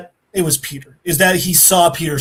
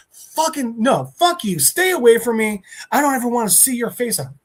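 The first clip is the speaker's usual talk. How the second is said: acted angry rejection; 6 semitones higher than usual. Peter angrily rejects Yurik.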